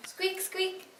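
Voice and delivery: high squeaky mouse voice; mouse squeak. Pretend. Kid playing mouse costume.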